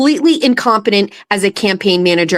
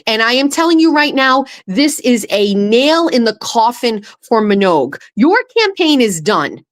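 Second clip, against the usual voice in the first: angry. Real, not acted. Furious rant at candidate.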